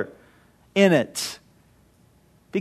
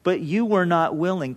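a heartbroken cry over the city, easing to a mild ending; mild mock lament; 2 semitones higher than usual. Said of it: "Jesus cried out".

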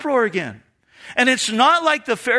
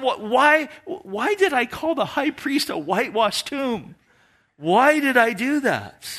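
higher-pitched, regretful self-questioning; self-reproach; 4 semitones higher than usual. Acted. Paul replaying his words to the high priest, self-reproachful. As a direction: beat yourself up over your own blunder. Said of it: "He's probably beating himself".

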